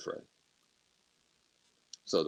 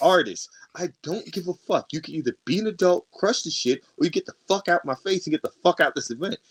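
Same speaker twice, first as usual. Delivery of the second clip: a somewhat higher, heated retold rant; angry rant; 5 semitones higher, 3 dB louder than usual. Telling off the ex at the art show, heated. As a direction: tear into her, telling her off. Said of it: "loses my temper or cool".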